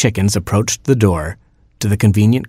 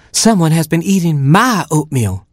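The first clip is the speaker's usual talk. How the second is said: high-pitched indignant mother hen; high, fussy hen character; Mama Hen; 9 semitones higher than usual. A narrator's reading. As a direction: put on a higher hen voice, leaning on MY. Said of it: "she said".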